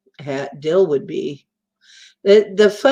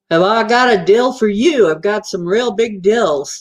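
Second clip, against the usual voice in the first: light Texas drawl; 3 semitones higher, 4 dB louder than usual. Retold or imitated. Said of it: "I was teasing Rex Bear".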